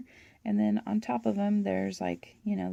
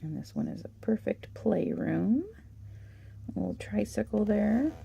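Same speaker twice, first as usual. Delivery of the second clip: losing her voice, a bit hoarse; worn, hoarse voice from talking. Real, not acted. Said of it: "I'm losing my voice".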